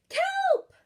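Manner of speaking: high, loud call of a name. Acted. Narwhal friends spot Kelp returning and call out loud. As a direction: shout across the water to a friend.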